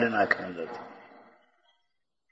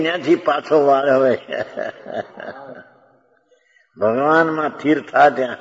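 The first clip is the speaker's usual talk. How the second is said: higher, louder call to turn back; raised preaching plea; urgent exhortation; 4 semitones higher, 4 dB louder than usual. Acted. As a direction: plead with the soul to come back to God.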